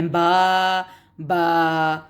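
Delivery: با held as a long vowel; با with an a held two counts. Shown as a demonstration. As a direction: stretch the a in با. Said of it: "ایک جتنے بڑے لمبے پڑھے جاتے ہیں".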